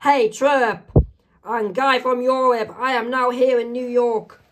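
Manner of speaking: acted high-pitched yell; yelling out loud. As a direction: call out high to someone across the street. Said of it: "she yells out loud".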